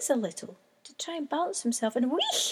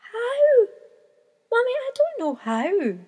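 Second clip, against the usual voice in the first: high, louder pleading cry; panicked chick; 9 semitones higher, 6 dB louder than usual. A narrator's reading. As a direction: beg her not to go. Chick panicking as mum leaves.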